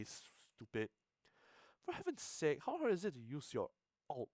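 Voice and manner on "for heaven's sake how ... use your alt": much higher frustrated lady's voice; exasperated counselor. Acted. Counselor fuming at her laptop, high exasperated voice. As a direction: squeal it out at the screen.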